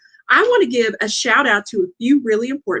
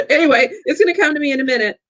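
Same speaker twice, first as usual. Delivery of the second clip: laughing; 4 semitones higher, much faster than usual. Real, not acted. Laughing at forgetting names.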